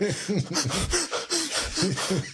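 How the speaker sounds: high, hitching mock sobs; imitated sobbing. Man retelling his breakdown on the park bench, imitated sobbing. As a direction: act out gasping, can't-breathe crying. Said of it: "I can't breathe. I'm, like, crying".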